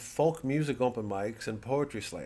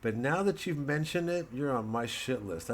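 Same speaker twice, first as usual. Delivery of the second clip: higher, sarcastic retort; mock sarcastic reply; 5 semitones higher than usual. The headliner answering the departing opener, sarcastic. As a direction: sneer it back, lightly. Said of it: "And I always say".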